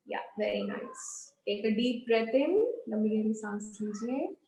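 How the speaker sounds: soft, unhurried guiding voice; guided breathing instruction. Acted. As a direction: lead them gently through each breath. Guides yoga breathing exercise.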